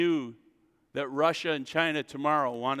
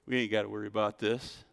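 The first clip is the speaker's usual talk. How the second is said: mock carefree whisper; 5 semitones lower, 5 dB quieter than usual. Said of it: "We'd be like".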